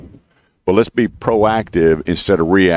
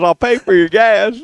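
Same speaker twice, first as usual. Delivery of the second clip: slow, high, put-on old lady voice; imitating old lady neighbor; 14 semitones higher than usual. Neighbor offering gas money to the host, slow high old lady voice. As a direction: sweeten the deal like a little old lady.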